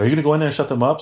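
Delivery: half-hearted retold yelling. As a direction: imitate a boss demanding action. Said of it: "starts yelling at me".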